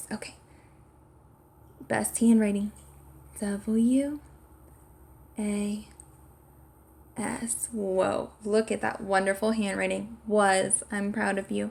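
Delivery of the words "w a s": soft, half-whispered delivery. Spelling a word together with the listener, half-whispering so they hear themselves. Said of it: "I'm gonna whisper it".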